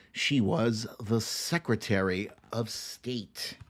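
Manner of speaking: lightly voiced picture-book reading, measured; storybook narration.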